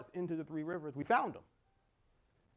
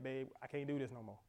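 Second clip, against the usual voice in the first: a softer, worn-out wife's plea; imitating his wife; 4 semitones lower, 11 dB quieter than usual. Preacher voicing his weary wife, softly pleading. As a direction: play his tired wife, dropping to a hush. Wife voiced in a sermon story.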